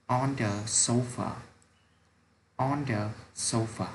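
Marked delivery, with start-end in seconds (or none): 0.1-1.3 slow model reading. Shown as a demonstration. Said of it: "Nào các em cùng đọc nhé".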